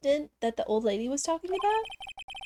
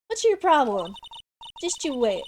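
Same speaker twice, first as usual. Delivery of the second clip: snapped back, loud; angry retort; 3 semitones higher, 5 dB louder than usual. Acted. Reporter snapping at the detective, loud and angry. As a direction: bark it at the cop.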